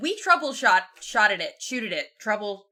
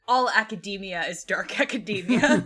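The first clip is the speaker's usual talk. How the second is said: laughing. Real, not acted. Quoting previous guest, laughing.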